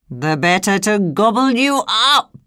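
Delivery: snarled. Acted. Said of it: "snarled the wolf".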